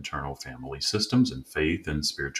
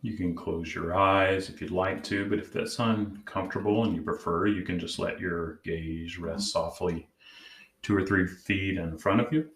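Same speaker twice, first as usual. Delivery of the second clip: calm, measured meditation guide; guided meditation; 2 semitones higher than usual. Acted. Host leading listeners to check in with their inner parts, guided meditation. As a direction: gently guide them inward, leaving long pauses.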